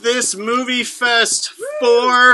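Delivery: high, loud show opener; excited shout. Real, not acted. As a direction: hype up the crowd.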